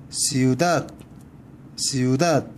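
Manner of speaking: 시우닷 stressed on the last syllable 닷. Shown as a demonstration. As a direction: land on 닷 at the end of 시우닷. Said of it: "맨 끝에 온답니다". (시우닷의 끝 '닷'에 강세)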